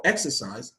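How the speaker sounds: exercise stressed as EX-er-cise; stress on first syllable. Shown as a demonstration. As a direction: hit the EX of exercise. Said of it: "on the first syllable".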